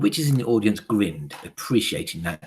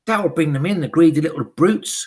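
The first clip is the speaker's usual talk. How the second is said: high, loud eager chorus; shrill witch chorus crying out; witches crying out; 8 semitones higher, 9 dB louder than usual. Acted. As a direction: answer her like fawning hags. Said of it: "cried the audience".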